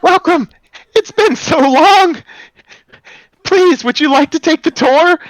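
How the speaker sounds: very high, loud and cracking, an eager stone guide; high cracking golem greeter. Acted. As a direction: squeak it out high and loud like a crystal creature welcoming guests. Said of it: "you can hear the crack in its voice".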